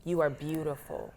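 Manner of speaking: softly, to herself in the mirror; hushed, with feeling and space around it; emotional self-affirmation. Retold or imitated. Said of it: "I got emotional".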